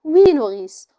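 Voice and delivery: a tired, resigned yes; suddenly weary. Acted. Antigone suddenly weary of her nurse's threats. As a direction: let the fight drain out of it. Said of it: "Antigone soudain un peu lasse".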